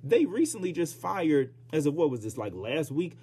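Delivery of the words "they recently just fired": ordinary delivery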